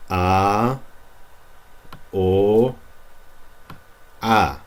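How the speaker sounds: each vowel said clear and the same; pure vowels. Shown as a demonstration. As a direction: call out a, o, a cleanly. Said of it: "are pronounced the same".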